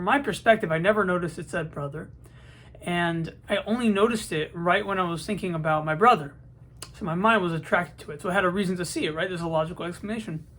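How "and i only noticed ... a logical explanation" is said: slight lisp from new aligners; talking with a lisp. Real, not acted. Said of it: "excuse the lisp, I just got these, um, retainer-like things, aligners".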